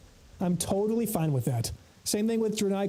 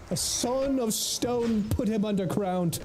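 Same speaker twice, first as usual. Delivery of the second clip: epic proclamation; 3 semitones higher, slower than usual. Pretend.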